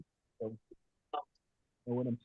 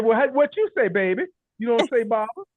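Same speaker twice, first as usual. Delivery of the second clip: lady's question; 5 semitones higher than usual. Retold or imitated. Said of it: "She said".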